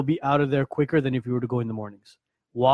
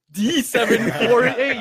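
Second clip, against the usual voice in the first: DMV voice; 6 semitones higher, 3 dB louder, slower than usual. Retold or imitated. Mimics DMV board call.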